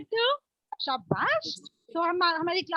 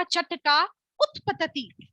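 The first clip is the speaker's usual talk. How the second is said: slow game call; 2 semitones higher, much slower than usual. Shown as a demonstration. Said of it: "या तो आप ऐसे करो".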